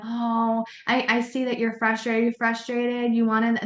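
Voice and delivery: lightly mocking over-talk; teacher mocking talking at a screaming child; pointless soothing chatter. Shown as a demonstration. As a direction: prattle on soothingly to a child who can't hear. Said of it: "You're just talking at 'em".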